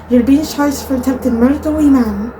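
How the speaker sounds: mild attempt at a Scottish accent; slightly Scottish accent. Shown as a demonstration. Vlogger showing the one Scottish line she can say, slight Scottish accent. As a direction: put on a light, amateur Scottish accent. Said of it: "in a slightly more Scottish accent".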